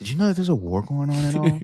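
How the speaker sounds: very high-pitched, condescending and patronizing. Retelling asking a friend a question: imitating a patronizing tone. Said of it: "I asked him in a very patronizing way".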